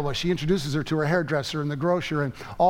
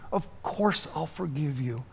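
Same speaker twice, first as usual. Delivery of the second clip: softer, tender repeat of the forgiveness; soft reassurance; 5 dB quieter than usual. Acted. Mother softly reassuring her grown daughter, tender. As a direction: ease off and say it gently again.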